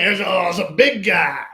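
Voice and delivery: loud fond exclaim, slowed; affectionate exclaiming. Real, not acted. Fondly showing off son.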